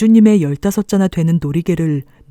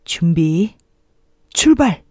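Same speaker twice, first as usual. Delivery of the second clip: race starter call; slower than usual. Acted.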